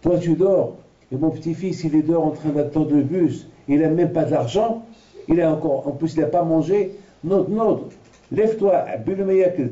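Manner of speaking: dead grandfather urging in a dream; scolding grandfather. Retold or imitated. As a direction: wake him up and send him to help.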